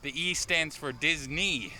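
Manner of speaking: slightly out of breath, puffing between words. Real, not acted. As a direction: talk while catching your breath. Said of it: "Oh, I'm out of breath again".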